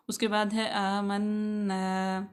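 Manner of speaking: आमन्ना slowly, holding the doubled nasal noon. Shown as a demonstration. Teacher points out the doubled noon, slow careful reading. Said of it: "नून मुशद्दद".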